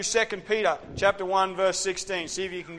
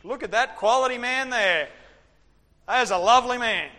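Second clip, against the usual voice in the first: God admiring; 6 semitones higher, 6 dB louder than usual. Retold or imitated.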